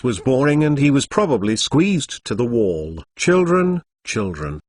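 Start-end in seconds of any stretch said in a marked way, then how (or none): 3.2-4.6 vague. A narrator's reading. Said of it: "said in a vague voice".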